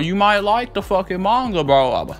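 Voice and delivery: can't contain the excitement; hyped up. Real, not acted. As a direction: pitch jumps way up with hype. Hyped about upcoming manga.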